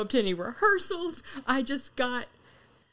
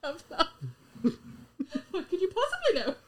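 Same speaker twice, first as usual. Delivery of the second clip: villain monologue; 5 semitones higher, 4 dB quieter than usual. Pretend. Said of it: "we choose our favorite villain monologues".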